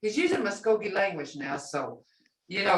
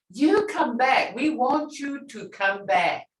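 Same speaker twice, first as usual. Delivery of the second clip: welcoming; 5 semitones higher, slower than usual. Shown as a demonstration. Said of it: "And this is saying".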